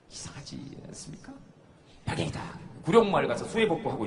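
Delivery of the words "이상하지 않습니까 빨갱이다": hushed, unvoiced mock label; whisper. Speaker mocks the label to the audience, whisper. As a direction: whisper it like a secret.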